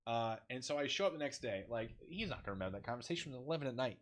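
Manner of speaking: normal talking voice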